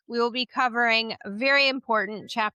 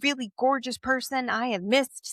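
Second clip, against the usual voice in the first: high-pitched imitation; 5 semitones higher, faster than usual. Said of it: "I'm like".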